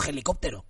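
"helicóptero" with a j sound at the start. Shown as a demonstration. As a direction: rasp the h of "helicóptero". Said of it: "no digo helicóptero".

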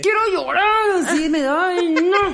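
high, slow, tearful whimper; mock teary whine; whiny about to cry. Describing frustration tears, high whiny whimper. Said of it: "así de".

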